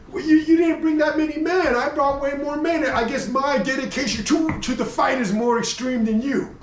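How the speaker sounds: boastful Athenian. Retold or imitated.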